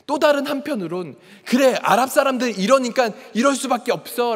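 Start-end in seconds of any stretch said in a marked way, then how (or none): 1.4-4.3 louder, higher resentful self-talk; rising hatred. Retold or imitated. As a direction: retell a thought with a touch of hatred. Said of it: "증오가 막 일어나기 시작하는". (증오가 올라오는 말투)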